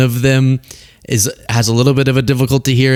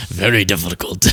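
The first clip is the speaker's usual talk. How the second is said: failed impersonation, lower pitched; Trump; 5 semitones lower, 4 dB quieter than usual. Acted. Commentator testing a lost presidential accent, failed low impersonation. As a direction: attempt the president's voice and miss, sinking low. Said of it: "That's not Trump".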